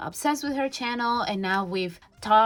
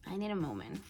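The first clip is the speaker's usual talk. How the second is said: emotional; 11 dB quieter, faster than usual. Real, not acted. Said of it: "I get so emotional".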